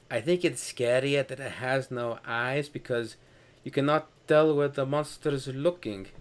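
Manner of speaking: measured imitation with altered pronunciation; H.R. Giger impression. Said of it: "according to Giger".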